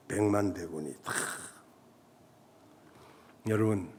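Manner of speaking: usual speaking voice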